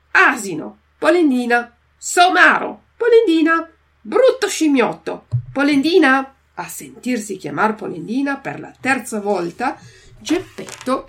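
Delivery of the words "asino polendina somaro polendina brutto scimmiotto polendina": shouted insults. Acted. Old men trade insults shouting.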